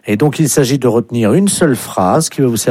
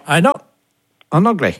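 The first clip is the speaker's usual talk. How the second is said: higher mock English accent in French; put-on English caller; 6 semitones higher, faster than usual. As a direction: insist as an Englishman speaking French. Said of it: "vous serez appelé par un Anglais". (faux accent anglais, voix plus aiguë)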